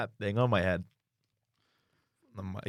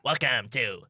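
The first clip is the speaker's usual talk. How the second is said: Green Goblin voice; 3 semitones higher, 4 dB louder, slower than usual. Acted. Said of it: "Green Goblin voice".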